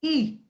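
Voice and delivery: ई kept short; quick short ई; short vowel ई. Shown as a demonstration. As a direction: say ई as a brief vowel, no lengthening. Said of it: "इसे हम short vowel कहते हैं".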